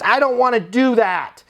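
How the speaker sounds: high, protesting resident voice; upset resident complaining. Acted. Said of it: "somebody yells at you".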